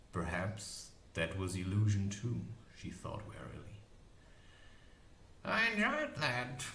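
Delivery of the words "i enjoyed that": high cackling crone voice; witch voice. A narrator's reading. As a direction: play the old witch, gleeful.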